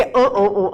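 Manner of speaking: short repeated "an" through the nose; nasal "fanho" grunts. Shown as a demonstration. Teacher recalling the gym memory trick for students, nasal repeated "an". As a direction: pulse out nasal "an, an, an". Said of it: "o fanho na academia".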